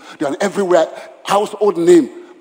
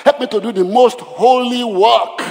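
building fervent prayer; led prayer. Acted. Pastor leading the church in prayer, building fervently. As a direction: pray it, rising in fervor.

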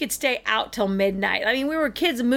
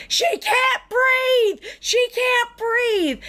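panicked shout; 12 semitones higher, much slower than usual. Retold or imitated. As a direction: shout for help as if a friend can't breathe. Friend runs in raising alarm.

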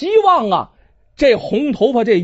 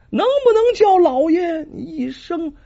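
higher, pleading repeat; dying plea; 9 semitones higher than usual. Acted. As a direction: beg once more, voice straining. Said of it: "极其微弱呀". (苦孩儿再次哀求)

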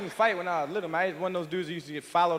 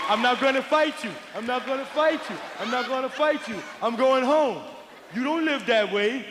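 put-on higher, pleading kid voice; scared kid; 6 semitones higher than usual. Bullied kid refusing to fight, high whiny plea.

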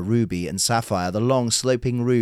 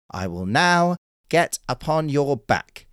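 serious tone; 5 semitones higher, slower than usual. Acted. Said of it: "he added in a serious tone".

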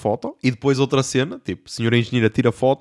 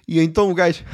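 usual speaking voice

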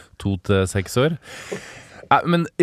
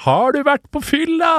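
high, drawn-out gleeful question; delighted question; 3 dB louder than usual. Retold or imitated. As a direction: ask it in mock delight. Spiller begeistret spørsmål i gjenfortelling. (overbegeistret, lyst og utdratt spørsmål)

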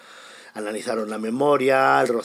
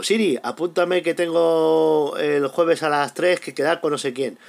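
dictating to Siri; 5 semitones higher, 5 dB louder than usual. Retold or imitated. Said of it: "que le vas diciendo".

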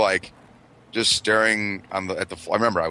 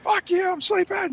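mock grumpy. Acting annoyed at fireworks.

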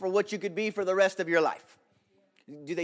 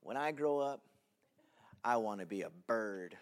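put-on sincere child answer; 9 semitones lower, 10 dB quieter than usual. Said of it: "I looked at the class and I said".

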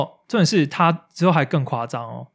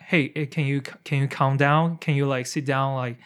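gentle, reasonable plea to a rowdy neighbour; polite request. Retold or imitated. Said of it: "一开始还好声好气说".

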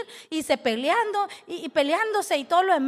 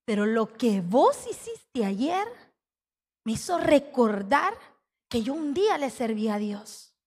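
client's voice; 3 semitones lower than usual. Retold or imitated. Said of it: "y me vocea".

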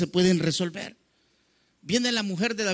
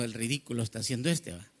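mocking wife; 8 semitones lower, 8 dB quieter, faster than usual. Wife mocking David's dancing.

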